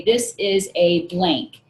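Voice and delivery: slow, deliberate sentence frame; modelling a sentence frame. Shown as a demonstration. Teacher models a sentence frame for students, slow and deliberate. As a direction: spell it out slowly for learners. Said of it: "So you can say".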